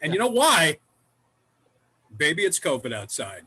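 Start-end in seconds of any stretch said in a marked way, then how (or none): 2.2-3.4 big announcer shout of the title; show title shout. Acted. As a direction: boom out the show's name. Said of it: "That's the name of the show".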